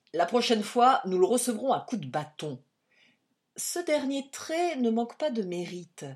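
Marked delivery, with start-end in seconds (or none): 0.1-2.6 loud threat. A narrator's reading. Agent threatening the suspect.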